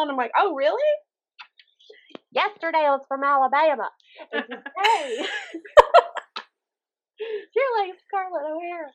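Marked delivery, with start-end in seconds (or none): 0.4-0.9 high, loud mock surprise; high mock-surprised sarcasm; sarcastic oh really. Sarcastic reply to compliment. 2.3-8.9 higher, laughing mock exasperation; higher, laughing, mock-exasperated. Mocking switch from Alabama to Scarlett.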